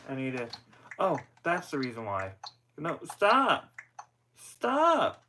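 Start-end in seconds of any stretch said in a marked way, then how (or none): 2.8-5.2 sharp, high yelled stop; frustrated shout. Real, not acted. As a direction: yell at the broken controller. Controller acting up on its own.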